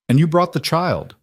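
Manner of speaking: high-pitched, smug politeness; smug satisfaction. Acted. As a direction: sound smugly pleased at what was brought. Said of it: "that smug expression".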